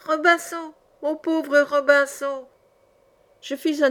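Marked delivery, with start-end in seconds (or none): 0.1-2.5 high, drawn-out woeful squawk; very strident, tearful parrot. A narrator's reading. Abandoned parrot pitying its owner, very strident and tearful. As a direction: wail it slowly in a high parrot voice. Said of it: "plus stridente encore, et plus éplorée".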